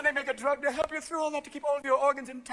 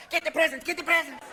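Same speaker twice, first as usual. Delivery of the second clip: put-on excited kids; 5 semitones higher than usual. Kids at piñata.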